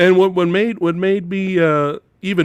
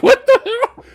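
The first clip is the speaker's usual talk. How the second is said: high mock shock; 6 dB louder than usual. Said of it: "I was like".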